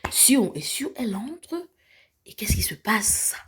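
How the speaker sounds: hushed storyteller whisper, building tension; suspense whisper. Acted. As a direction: lean in and whisper the reveal. Suspense as Sio enters. (chuchoté, plein de suspense)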